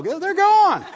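high, loud laugh through the words. Real, not acted. To the congregation, laughing at getting upset over old news. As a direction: laugh it off, amused at the silliness. Joking about Abbott and Costello.

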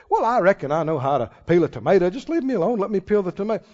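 mock huffy know-it-all; a hint of a proud, touchy helper; lightly voiced stubborn helper brushing off advice; stubborn retort. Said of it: "people I've heard say things like this".

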